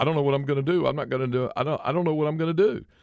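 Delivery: acted near-tearful, nearly crying pleading tone. Retelling what you said sitting in the principal's office: imitating being near tears. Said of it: "I was near in tears".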